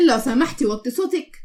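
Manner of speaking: laugh, then mimic the request; mocking echo. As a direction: throw the request back mockingly. Request repeated back with a laugh.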